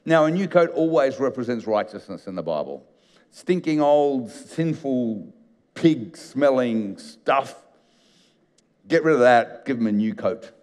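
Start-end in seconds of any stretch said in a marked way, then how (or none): 3.3-7.6 slow, dragged-out disgust; mock revulsion, stretched slowly. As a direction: spit the words out like something rotten. Describes the filthy old coat.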